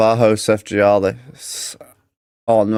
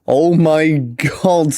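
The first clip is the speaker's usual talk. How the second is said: higher-pitched disbelief; stunned exclamation; 4 semitones higher than usual. Real, not acted. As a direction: react amazed at the near goal. Stunned by near goal.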